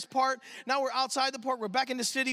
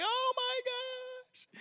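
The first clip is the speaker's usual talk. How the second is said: high, drawn-out "oh my gosh" in wonder; slow, high, soft awe; awed gasp; 13 semitones higher, 6 dB quieter, much slower than usual. Retold or imitated. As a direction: melt with astonishment. Overwhelmed watching feet washing.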